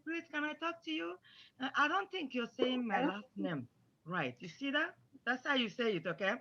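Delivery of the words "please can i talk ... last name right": soft, polite plea for a word; respectful correction. Shown as a demonstration. Pupil privately asking Miss Smith for a word, soft and respectful. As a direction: approach gently and raise the mistake tactfully. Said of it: "say it in a respectful way".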